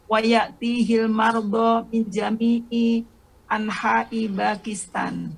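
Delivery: jami'i now said with its full middle syllable; student repeating the line after the teacher's correction; corrected repeat. Shown as a demonstration.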